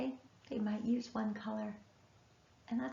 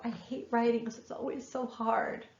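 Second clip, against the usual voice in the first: put-on cranky child; 4 dB louder than usual. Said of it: "get cranky and go".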